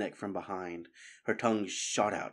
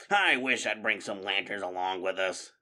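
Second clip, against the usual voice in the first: whining; 2 semitones lower than usual. Acted. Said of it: "Fangburn whined".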